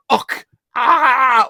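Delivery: high, loud pained cry with a Scottish och; mock Highland scream of pain; a dying Scot's yell, "Och" thrown in. Shown as a demonstration. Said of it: "Unless you go".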